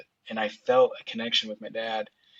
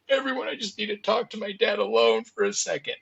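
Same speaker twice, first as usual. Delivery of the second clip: much higher, strained plea to be left alone; a touch of breaking urgency, pitched up; urgent request; 11 semitones higher than usual. Retold or imitated. Son asking the family to leave the room, high strained plea.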